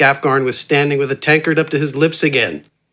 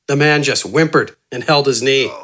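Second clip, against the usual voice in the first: ordinary delivery, nothing marked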